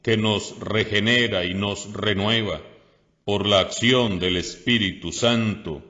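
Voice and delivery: measured, solemn reading from the lectern; liturgical reading. Acted. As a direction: proclaim it to the congregation. Reads the liturgy at mass.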